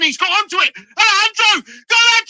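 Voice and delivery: real excitement at a near chance; excited shout. Real, not acted. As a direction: call the player's name as he breaks. Near chance, live reaction.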